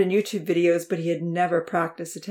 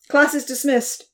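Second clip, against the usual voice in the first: higher, louder announcement; called out loudly; 8 semitones higher, 6 dB louder than usual. A narrator's reading. Professor dismissing his class, called out loud. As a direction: call it across the room. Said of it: "he called out loudly".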